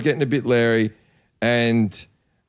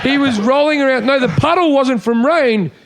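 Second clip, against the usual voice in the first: laughing through the words; 9 semitones higher, 3 dB louder than usual. Real, not acted. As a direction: giggle while protesting. Laughing while telling the story.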